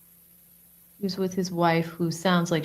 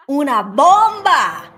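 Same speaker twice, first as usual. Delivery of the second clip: "Una bomba" slow, high, through laughter; laughing; 8 semitones higher, 7 dB louder, slower than usual. Retold or imitated. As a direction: savour "bomba", chuckling. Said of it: "He said it sounded like una bomba".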